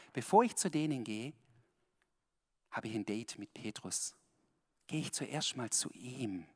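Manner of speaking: a hint of fond, private tone; lightly voiced Jesus. Voicing Jesus confiding.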